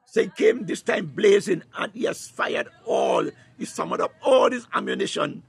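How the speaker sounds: fervent, driving sermon delivery; impassioned preacher rallying the congregation; full-force preaching. Real, not acted. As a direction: preach it with rising urgency and punched key words.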